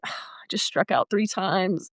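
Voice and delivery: unvoiced whisper to yourself; whispered inner thought. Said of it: "in my head, I'm like".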